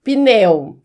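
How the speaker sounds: "pneu" as pi-NEU, P nearly mute; correct pneu. Shown as a demonstration. Teacher insisting to colleague on correct pneu, mute P. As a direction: say "pneu" with no e after the P. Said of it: "o correto é pneu".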